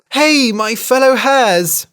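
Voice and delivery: high, loud, slow call to the herd. A narrator's reading. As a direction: gather the hares urgently. Hare calls to other hares.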